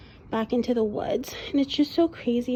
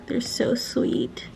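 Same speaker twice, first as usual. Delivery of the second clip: whispering; 3 dB quieter, much slower than usual. Real, not acted. Whispering about deer.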